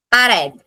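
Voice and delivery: "Parent" said pa-RED, second syllable stressed; "Parent" stressed at its end, pa-RED; stress on last syllable. Shown as a demonstration. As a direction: put the weight on the final syllable of "Parent", as pa-RED. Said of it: "yung red ang mataas".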